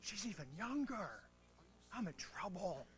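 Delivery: mildly anxious, half to himself; worried inner voice. Retold or imitated. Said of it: "So I'm like".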